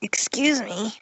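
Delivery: unvoiced whisper, sneaking up. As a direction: whisper it so only he hears. Spike sneaks up behind the stallion.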